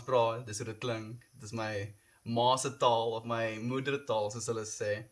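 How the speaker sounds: a short sample of spoken Afrikaans. Shown as a demonstration. Streamer showing viewers how Afrikaans sounds, in easy Afrikaans. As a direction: speak it as your mother tongue. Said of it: "That was a little bit of Afrikaans".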